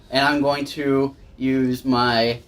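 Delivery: ordinary talk, nothing marked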